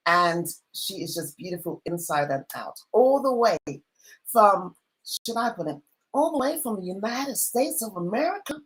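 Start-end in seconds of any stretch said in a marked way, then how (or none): 2.9-8.6 put-on American accent. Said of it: "Have I got that accent right?".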